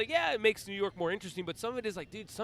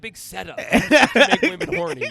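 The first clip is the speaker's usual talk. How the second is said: mock indignant rant; 4 semitones higher, 12 dB louder than usual. Comic rant at the gymnast.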